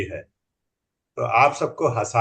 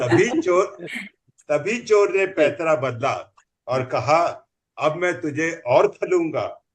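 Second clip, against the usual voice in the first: comic poem recital; 2 semitones higher than usual. Acted.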